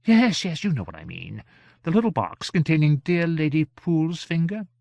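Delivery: high-voiced, fussy, impatient gentleman; lofty character voice, testy and high. A narrator's reading. Gentleman impatient about lost box.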